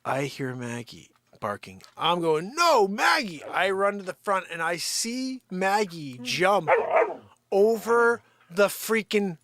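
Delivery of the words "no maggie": high, loud mock alarm; acted-out urgent yell; retold panicked call. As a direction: re-enact calling back a runaway dog. Retells calling the escaping dog.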